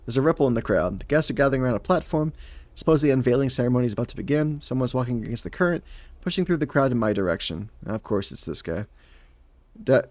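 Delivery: animated first-person storytelling; audiobook-style narration with acted dialogue; story narration. A narrator's reading. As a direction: read the scene aloud, lightly voicing each character.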